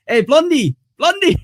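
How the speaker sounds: high, loud mock call of Blondie. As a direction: call out high and sing-song to get his attention. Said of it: "one of them was like".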